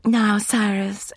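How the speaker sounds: high, breathless and slow pleading. A narrator's reading. Catherine trots alongside her pacing husband, breathless. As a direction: puff it out while trotting to keep up. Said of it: "emitting breathless phrases like".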